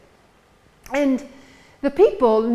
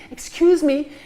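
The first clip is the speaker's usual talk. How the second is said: polite pleading; 4 semitones higher, 4 dB louder than usual. Acted. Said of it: "crawled through the people and saying".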